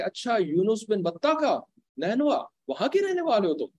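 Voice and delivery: mildly surprised question. Retold or imitated. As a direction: act out pleased recognition, asking to confirm. Retold surprised question about hometown. (हल्की हैरानी भरा सवाल)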